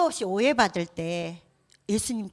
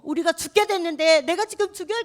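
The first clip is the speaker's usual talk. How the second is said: reproachful complaint; 7 semitones higher than usual. Pretend. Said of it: "이렇게 막 원망하고 따지는 거예요".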